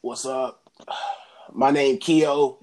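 slow, sighing, laid-back drawl; lightly voiced stoned classmate; Keon's slow voice. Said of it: "the very word that came out of Keon's mouth".

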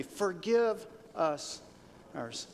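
very slow, word by word; say-along recital. Shown as a demonstration. Preacher asks the congregation to say it along, slow recital. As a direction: draw out FORGIVE US for others to join. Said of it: "Say that with me".

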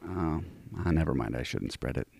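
secretive hushed aside. Pretend. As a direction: drop to a hush, as if holding back gossip. Hushed butter-pun setup.

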